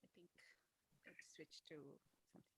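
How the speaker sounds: faint voice cutting out; very low, almost inaudible; barely audible. Real, not acted. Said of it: "your voice is very low right now".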